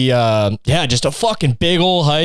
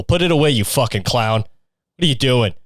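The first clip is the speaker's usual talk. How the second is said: low sneer; 4 semitones lower than usual. Acted. Sneering insult, low drawn out.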